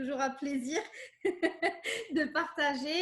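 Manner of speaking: phrase ralentie, coupée d'un petit rire; en riant. Real, not acted. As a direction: rire de plaisir au milieu de la phrase. Invitée ravie de partager. (l'invitée remercie en riant doucement)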